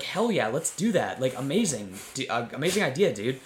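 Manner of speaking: mock-excited bro enthusiasm; psyched. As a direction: play it like two overgrown kids thrilled by an idea. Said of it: "they're both totally psyched".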